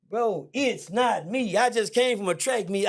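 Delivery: high, slow pleading; slow it down, begging. Retold or imitated. Young man pleading with attackers that it is not him, high and slow.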